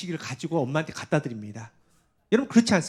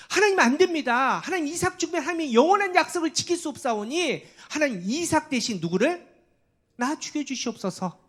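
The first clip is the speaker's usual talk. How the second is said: Abraham's voice raised high, begging God; pleading prayer; 8 semitones higher than usual. Acted. 목사가 아브라함의 기도를 연기. (높은 목소리로 간절히 애원하는 아브라함)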